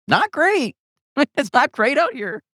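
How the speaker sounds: a wry giggle pushed way up. Real, not acted. Comic telling a podcast host times are rough, laughing high.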